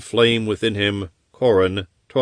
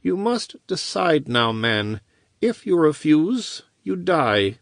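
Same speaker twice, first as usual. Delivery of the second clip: higher-pitched menacing wizard; a hint of a threatening sorcerer; cold ultimatum; 9 semitones higher than usual. Wizard giving the chained man a final ultimatum, menacing.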